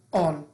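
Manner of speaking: "آن" said with an open short O like آ. Shown as a demonstration. Teacher showing learners short O, "آن" with open آ. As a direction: model "آن" with the vowel آ.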